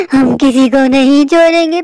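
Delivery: low slow witch menace. Retold or imitated. Witch threat again.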